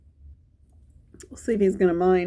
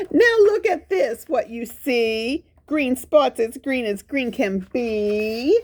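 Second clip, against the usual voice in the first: put-on the dog proudly showing children his spots; 3 semitones higher than usual. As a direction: show off the green spots, pitched up. Spot showing green spots.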